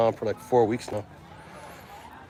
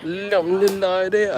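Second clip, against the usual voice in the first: imitating her words; 6 semitones higher, slower than usual. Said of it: "I don't know what she's saying".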